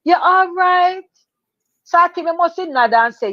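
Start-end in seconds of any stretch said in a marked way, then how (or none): 0.0-1.0 stewardess voice. Retold or imitated. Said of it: "she said".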